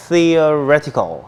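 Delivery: theoretical, very slowly, landing on -ret-; slow stress demo. Shown as a demonstration. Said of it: "강세 여기". (theoretical을 아주 천천히, ret에 강세)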